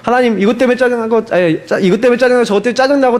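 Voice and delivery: mildly vexed complaint to God; lightly acted irritation, piling up complaints; irritated prayer. Shown as a demonstration. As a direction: grumble through a list of annoyances in prayer. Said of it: "그럼 짜증 좀 내세요".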